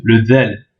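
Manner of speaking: del said with the th of there; tongue between the front teeth for del; voiced th in del; del with English th. Shown as a demonstration. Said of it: "comme le T H anglais, dans there".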